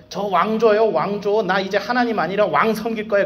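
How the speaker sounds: demanding Israelites. Retold or imitated. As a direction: whine like a crowd begging for a king. (왕을 조르는 백성의 높은 목소리)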